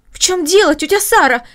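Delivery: high, loud startled cry; alarmed girl crying out to her aunt; alarmed exclamation. Acted. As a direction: call out in sudden alarm. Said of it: "воскликнула Маша".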